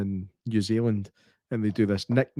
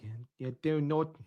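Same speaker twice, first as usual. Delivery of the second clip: whispered mock retort; 2 semitones higher, 10 dB quieter than usual. Real, not acted. Mocking retort.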